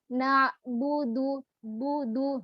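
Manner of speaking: bu rounded then du from a smile; correct bu du. Shown as a demonstration. Teacher drilling the sequence. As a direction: reset the lips before du. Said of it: "tersenyum dulu".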